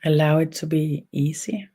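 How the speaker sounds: unhurried guidance with long pauses between phrases; guided meditation. Real, not acted. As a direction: guide gently, leaving space after each phrase. Leads an energy meditation.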